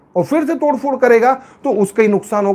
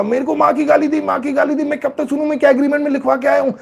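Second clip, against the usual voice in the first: mock crying complaint; 4 semitones higher, faster than usual. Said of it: "बैठ के रोने लगा, चिल्लाने लगा".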